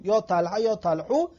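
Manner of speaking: یا طلحه then یا طلحو, final vowel changed to o; two endings of the name. Shown as a demonstration. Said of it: "آخرش رو چی حرکت بتین". (تلفظ دو گونه یا طلحه و یا طلحو)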